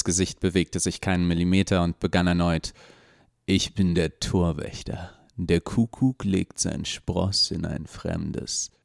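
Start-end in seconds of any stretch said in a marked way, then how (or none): 3.5-8.7 deep rough voice. Acted. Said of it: "mit einer tiefen und rauen Stimme".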